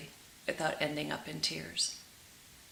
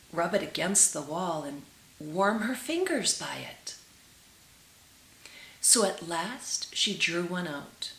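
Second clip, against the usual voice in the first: gentle, measured storytelling to listeners; tender read-aloud storytelling; storybook narration. A narrator's reading. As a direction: read it like a fairy tale by the fire. Reads fairy tale aloud.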